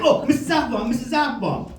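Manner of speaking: high, eager schoolkid imitation; eager pupil. Kid in geography class calling teacher, high and eager.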